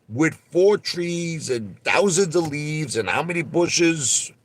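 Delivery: high-pitched, drawn-out mock cross-examination; incredulous lawyer impersonation. Lawyer challenging a witness's view through the window, mock incredulous. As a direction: pile up each item in high disbelief.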